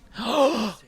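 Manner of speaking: loud, startled intake of breath; sharp gasp. Real, not acted. Gamer watching the pull reveal, startled gasp. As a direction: gasp in surprise.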